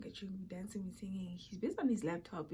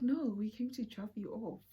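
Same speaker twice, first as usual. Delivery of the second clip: laughing shout. Real, not acted. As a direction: crack up while shouting. Laughing retelling to friend.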